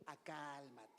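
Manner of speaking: low, soft self-soothing; hushed inner calming; calm yourself. Shown as a demonstration. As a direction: say it quietly to yourself, settling down. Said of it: "me ha ayudado mucho a ¿qué?".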